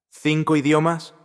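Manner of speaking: an executive caught off guard, surprised. A narrator's reading. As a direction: blurt it out in disbelief. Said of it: "con voz cargada de sorpresa".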